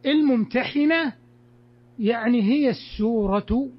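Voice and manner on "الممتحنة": الممتحنة with a short i after the ح; kasra pronunciation. Shown as a demonstration. Teacher introducing the meaning, الممتحنة with kasra, "-hina". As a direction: say الممتحنة higher, as al-mumtahina. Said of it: "بالكسر على أنها".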